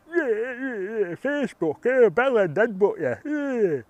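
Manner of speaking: high, loud squawking imitation; mock him with shrieky, repetitive jeers; hammed-up high-pitched rant. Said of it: "he's there, like".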